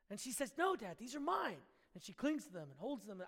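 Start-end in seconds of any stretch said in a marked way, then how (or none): 0.6-1.6 higher-pitched, lightly acted little-girl protest; child's refusal. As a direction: refuse Dad like a possessive child. Retold daughter refuses to give pearls.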